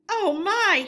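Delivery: high, loud breathless gasp. A narrator's reading. Toad gasping as police chase him. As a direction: gasp in panic while running. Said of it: "he gasped as he ran".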